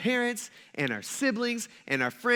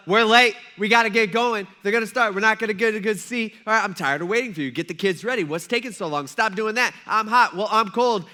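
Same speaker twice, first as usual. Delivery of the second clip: louder, impatient retold squabble; mock family bickering; 3 semitones higher, 6 dB louder than usual. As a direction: nag the family out the door, hammed up. Acts church-morning family fight.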